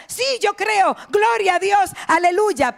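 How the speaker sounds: exclamaciones de creyente, más agudas; fervor imitado. Retold or imitated. (fervor de iglesia imitado)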